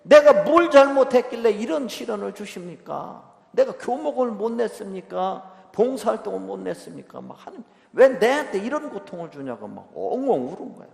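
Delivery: high, loud, tearful pleading cry to God; wailing prayer. Retold or imitated. Grieving mother cries out to God in church, wailing loudly. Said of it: "막 성당 가서 막 엉엉 울어".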